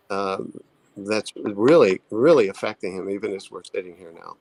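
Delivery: soft reassuring therapist voice confronting a client; soft, gentle challenge. Retold or imitated. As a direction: deliver it softly, worried for him. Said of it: "the softer your tone has to be".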